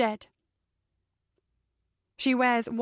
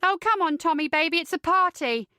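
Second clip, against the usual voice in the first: teasing; 6 semitones higher than usual. A narrator's reading. Drunk girlfriend teasing angry boyfriend.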